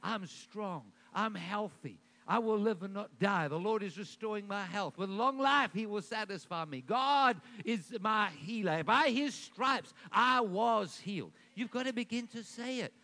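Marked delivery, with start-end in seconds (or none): 0.0-11.3 faith declaration. Shown as a demonstration. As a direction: proclaim each promise, growing stronger. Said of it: "you gotta start declaring it".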